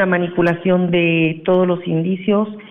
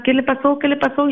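high, desperate retold cry of a mother; anguished cry; 8 semitones higher than usual. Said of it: "Y empezó a gritar".

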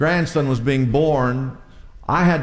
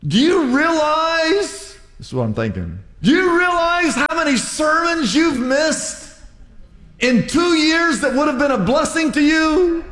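imagined rant building to a shout; incredulous inner rant; 11 semitones higher than usual. Retold or imitated. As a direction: pour out the unspoken rebuke. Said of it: "But I thought".

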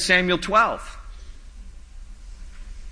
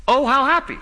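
Oh, how happy lifted high with delight; joyful exclaim; 8 semitones higher than usual. Shown as a demonstration. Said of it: "literally translates".

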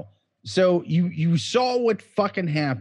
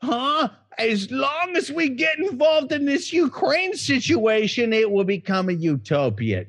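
mock patriotic shout; 9 semitones higher than usual. Mocking sarcastic political voice.

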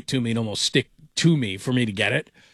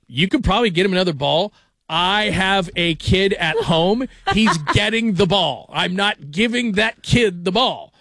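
raised, slowed and emphatic, laughing into it; defiant refusal; 5 semitones higher, slower than usual. Retold or imitated. To the security guard begging for the ball, a stubborn mock-firm refusal.

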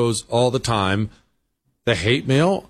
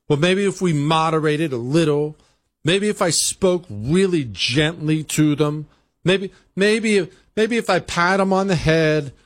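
mock timid moderate; 4 semitones higher than usual. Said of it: "They think that they can just accommodate them".

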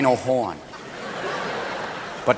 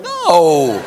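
women dreading it; 3 semitones lower than usual. Acted. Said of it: "A lot of women are going".

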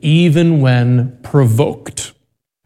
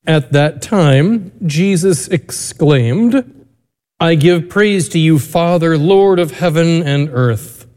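Gospel reading. Acted. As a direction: read scripture aloud with reverence.

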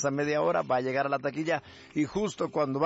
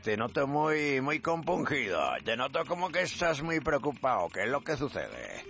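light mock Galician accent, slowing at the end; acento gallego. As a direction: imitate a concerned Galician, lightly. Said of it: "está un gallego que se encuentra con otro". (imitación leve de acento gallego)

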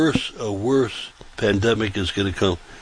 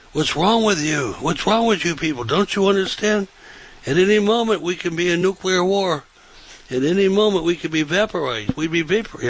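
retold outburst, pitched way up; imitating panicked yelling; 9 semitones higher than usual. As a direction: act out a schoolmate losing it, high and urgent. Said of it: "he started yelling".

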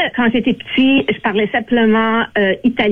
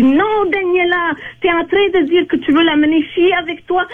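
scolding mother; 6 semitones higher than usual. Retold or imitated. Mother catching her daughter's mistake, high scolding voice. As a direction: mimic the mother stopping her daughter, pitched up. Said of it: "Puis elle rentre dans la chambre et dit".

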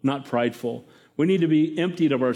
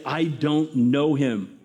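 swearing denial; 3 semitones lower, much slower than usual. Acted. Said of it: "he's gonna swear and say".

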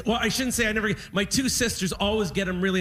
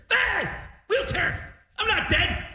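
indignant dad; 11 semitones higher, slower than usual. Retold or imitated. Dad refusing the wheelchair.

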